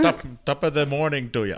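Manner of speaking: mock Irish. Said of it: "Oh, that's Irish".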